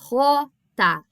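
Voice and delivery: "rota" said as "hota"; Spanish J name, "rota" opening on an aspirated R. Shown as a demonstration. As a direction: say "rota" in two clear beats, h-like start. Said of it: "o J também com som de R".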